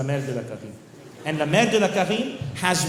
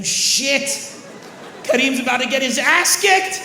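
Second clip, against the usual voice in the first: excited; 8 semitones higher, slower than usual. Retold or imitated. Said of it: "all of us on the plane were like".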